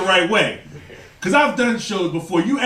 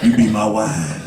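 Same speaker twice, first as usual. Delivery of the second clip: 5 semitones lower than usual. Retold or imitated. The fiance proposing to his girlfriend, deep crooner voice. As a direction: croon it deep like a love song. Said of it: "you're gonna be like Barry White".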